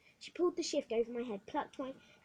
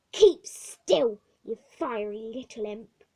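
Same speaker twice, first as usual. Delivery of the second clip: loud snap then slow scold; angry order; 14 dB louder, much slower than usual. Acted. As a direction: bark at the squirming child. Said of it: "she said".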